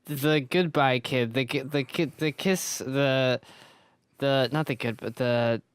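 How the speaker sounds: slurred and stumbling. Real, not acted. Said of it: "I love seeing you struggle".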